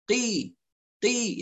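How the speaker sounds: "قي" with a tight q and no puff; breath held back. Shown as a demonstration. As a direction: block the air on the "ق" of "قي". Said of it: "يبقى نحبس الهواء". ("قي" بحبس الهواء)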